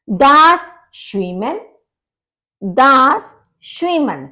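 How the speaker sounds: स्विमन said with "shv" at the start; German sch sound. Shown as a demonstration. Teacher shows students German sch sound. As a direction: stress the sh in स्विमन. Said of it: "वो भी शा बोला जाता है".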